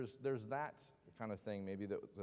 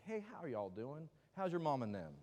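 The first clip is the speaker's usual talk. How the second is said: lightly acted Southern friendliness, pitched up; Southern kindness; 4 semitones higher than usual. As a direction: greet them like a super-kind Southern neighbor. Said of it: "what you think Southern kindness is".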